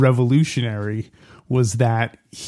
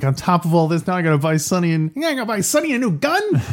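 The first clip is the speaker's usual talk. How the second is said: whiny Fredo voice; 5 semitones higher than usual. Retold or imitated. Fredo voiced, whining about gun.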